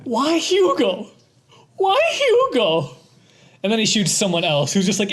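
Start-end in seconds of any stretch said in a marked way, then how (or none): 0.0-2.9 very high, drawn-out mock Russian wail; hammed-up Russian-accented cries, slowly stretched; Hugo, Russian accent. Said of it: "speak of Hugo in a Russian accent".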